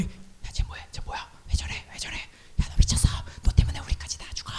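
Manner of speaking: hushed panicky whispering; frightened whisper. Retold or imitated. Recruits hissing at their friend to sit down, frantic whisper. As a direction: whisper urgently so no one hears.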